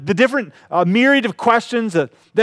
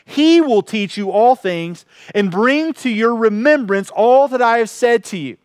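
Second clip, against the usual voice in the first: scripture reading. Acted. Reads scripture verse aloud.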